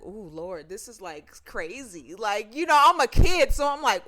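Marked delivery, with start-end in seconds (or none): 0.0-2.2 put-on scared kid. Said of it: "I was like".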